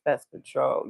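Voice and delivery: low, subdued imitation of a sad caller. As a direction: mumble it softly, downcast. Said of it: "he looked just so sad".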